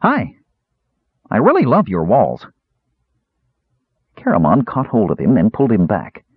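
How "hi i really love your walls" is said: high, bright little voice, very polite; eager kender greeting. Acted. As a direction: chirp it up like a cheerful small kender. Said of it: "politely extending his small hand".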